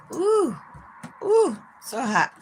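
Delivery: high, loud mock whoops about the heat. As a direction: whoop like it's a heatwave. Complaining about sixty-six degrees.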